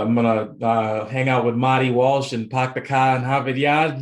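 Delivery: a light put-on Boston accent, joking. Guest jokes to host in a mild mock Boston accent. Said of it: "Where's the Boston accent".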